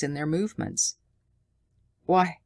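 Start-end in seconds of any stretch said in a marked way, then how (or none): 2.0-2.4 shouted. A narrator's reading. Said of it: "Tommy shouted".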